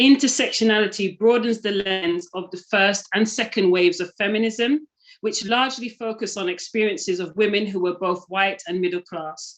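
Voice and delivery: ordinary talk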